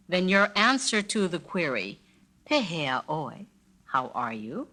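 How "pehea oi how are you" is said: feeling poorly. Shown as a demonstration. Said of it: "if you're not feeling too good".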